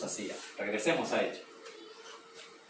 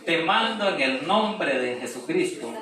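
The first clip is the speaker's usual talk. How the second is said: commanding rebuke; 6 semitones higher, 6 dB louder, slower than usual. Acted. Paul commanding the spirit out.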